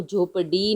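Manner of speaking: the wrong "झोपड़ी", with a hard stopped ड; hard ड instead. Shown as a demonstration. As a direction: say "झोपड़ी" with a plain d-stop, no flap. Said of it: "नहीं बोल रहे हैं".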